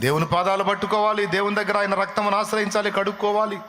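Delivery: high, impassioned sermon voice, rising phrase by phrase; soaring pulpit fervour; fervent preaching. Acted. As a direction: preach it with fire to the congregation. Preaching at full force.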